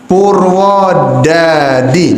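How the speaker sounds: slow light Purwodadi without Javanese accent; plain non-medok. Shown as a demonstration. Teacher shows students a Purwodadi with no Javanese accent. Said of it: "nah, biasa".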